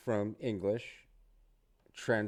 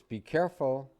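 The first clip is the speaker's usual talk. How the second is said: a lightly voiced worried mother, "careful" leaned on; mother's warning; 4 semitones higher, 4 dB louder than usual. Mother warns her child going out driving, a light raised warning. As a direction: warn like a mom, a little higher and louder. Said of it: "your mother says".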